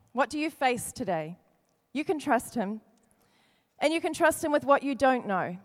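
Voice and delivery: quiet pastoral comfort; soft reassurance. Acted. Soft reassuring repeated lines.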